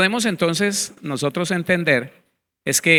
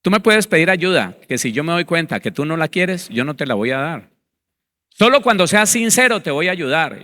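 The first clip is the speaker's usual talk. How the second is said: voice of the Lord; 2 semitones higher, 3 dB louder than usual. Retold or imitated. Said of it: "me decía el Señor".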